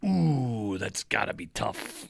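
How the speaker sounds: soft, slow, lightly mocking sympathy. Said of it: "It was more of a".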